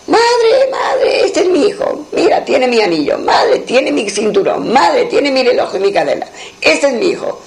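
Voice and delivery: high anguished cries of a father; crying out. A narrator's reading. Prince crying out to his mother over his found son. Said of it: "Y empezó a dar grito".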